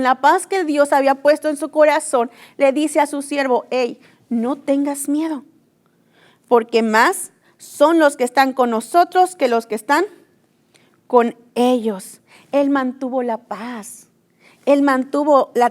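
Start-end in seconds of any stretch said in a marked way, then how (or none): 3.7-12.2 calm reassurance. Retold or imitated. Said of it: "con tanta paz".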